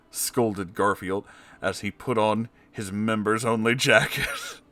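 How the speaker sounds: ordinary delivery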